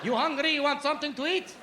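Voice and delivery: put-on Arab accent, hospitable; hospitable cousin. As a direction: offer food in an Arab accent. Cousin offering food.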